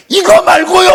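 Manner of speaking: high, loud blurted protest; startled loud cry; sudden shout. Retold or imitated. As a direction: snap out of praise and yell it. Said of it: "이렇게 얘기하는 거예요".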